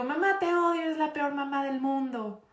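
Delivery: high, whiny mock child yelling at mom; angry child quote. Teacher voicing a furious child at their mother, hammed-up high. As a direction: voice the kid lashing out at mama. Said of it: "te digo".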